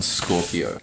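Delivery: low, sinister Bond villain. Acted. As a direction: purr it like a movie villain. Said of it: "You sound like a Bond villain".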